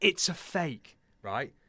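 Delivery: shrill, full-volume, top-of-the-lungs scream. Retelling catching a fake twenty-pound note on a first transaction: retelling a scream at full voice. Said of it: "literally at the top of my voice".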